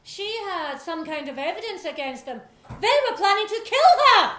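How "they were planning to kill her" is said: higher, loud accusing cry; loud dramatic accusation before the inspector; dramatic exclamation. Acted. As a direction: throw out the reveal. Accusation reveal climax.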